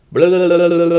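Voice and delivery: high, loud mock argument babble; loud angry babble. Shown as a demonstration. Teacher demonstrates loud Dominican arguing. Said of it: "very important that you're loud and angry".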